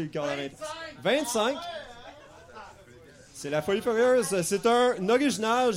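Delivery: ordinary talk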